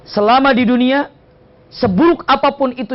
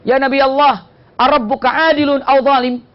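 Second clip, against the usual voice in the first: raised, pleading imitation of complaint; tearful complaint; 5 semitones higher than usual. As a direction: act out a distressed woman's appeal, without sobbing. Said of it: "Sambil nangis dia mengatakan".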